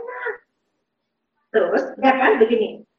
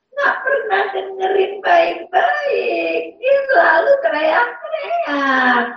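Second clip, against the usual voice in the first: put-on child crying; 5 semitones higher than usual. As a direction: sob out the complaint as the child. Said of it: "Dan dia bilang".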